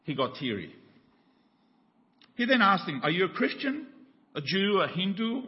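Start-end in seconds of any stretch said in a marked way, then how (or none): 3.0-5.4 higher, eager questioning voice; eager stranger. Retold or imitated. Stranger grilling the jumper on the bridge, eager and higher. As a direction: press him with bright curiosity.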